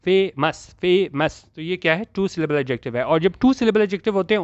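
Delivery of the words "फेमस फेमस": फेमस twice, each parted as फे, मस; two separate syllables. Shown as a demonstration. Teacher confirming two syllables, फेमस in two beats. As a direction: repeat फेमस with a gap after फे. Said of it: "फे फिर मस".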